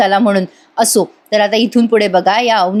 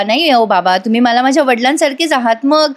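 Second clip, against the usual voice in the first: lightly sugary, polite son-in-law act; butter up the father gently; a touch of put-on sweetness; sweet-talking; 3 semitones higher than usual. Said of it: "कसा गोड गोड बोलतो".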